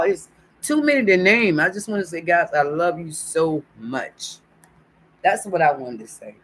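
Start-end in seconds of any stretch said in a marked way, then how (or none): 0.0-4.4 teary-eyed. Real, not acted. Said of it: "to get these tears of joy".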